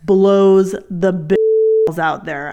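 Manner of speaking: slow, drawn-out disgusted complaint; mock exasperated groan; annoyed grumble. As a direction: drag it out like you're fed up. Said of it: "I was so fucking annoyed".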